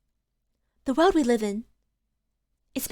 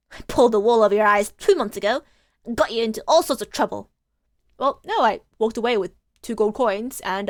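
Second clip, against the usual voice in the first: lightly voiced Cockney girl, boastful; cocky street urchin; 3 dB louder than usual. Gina boasts to Phoenix that she is a born liar, cheeky. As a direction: brag about lying, cheeky. Reads Gina's Cockney lines.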